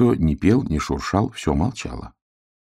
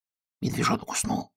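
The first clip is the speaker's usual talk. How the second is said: шёпот; 10 dB quieter than usual. Acted. Белка шепчет в темноте.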